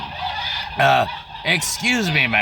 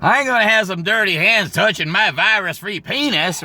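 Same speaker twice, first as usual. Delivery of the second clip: playing the fussy guy; 6 semitones higher than usual. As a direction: correct her primly. Guy explains he meant hands.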